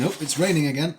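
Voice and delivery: a hint of a grumbling Brit; mock British weather moan. Complaining about the rain to viewers, mock grumble. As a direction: sigh it like a fed-up local. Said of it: "how the weather swings between".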